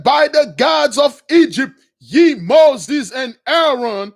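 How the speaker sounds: high, loud oath, slowing on the names; angry king. Retold or imitated. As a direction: swear at them in fury. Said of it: "And the king got angry".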